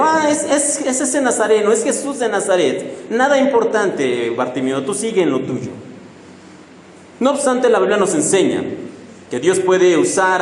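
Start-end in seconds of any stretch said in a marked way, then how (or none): 0.0-5.7 scornful brush-off. Retold or imitated. Crowd mocking blind Bartimeo, dismissive sneer. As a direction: brush him off like a nobody. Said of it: "ellos simplemente le dicen a Bartimeo".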